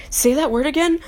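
lightly voiced curious customer; amazed customer. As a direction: imitate customers marvelling at an accent. Customers reacting to the accent.

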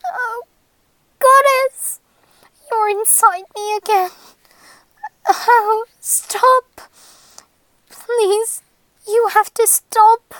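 high, halting cry; acted high-pitched protest; distressed plea. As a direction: cry out, then beg haltingly. Captive cries out in distress.

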